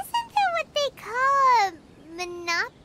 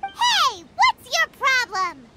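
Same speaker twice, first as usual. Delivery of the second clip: indignant; 3 dB louder, slower than usual. Acted. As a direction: call him out on his rudeness. Traveler confronting the rude vendor.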